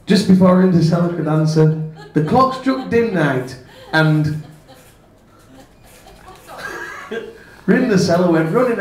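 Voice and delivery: reading while cracking up; giggling at the joke while reading on; laughing through it. Real, not acted.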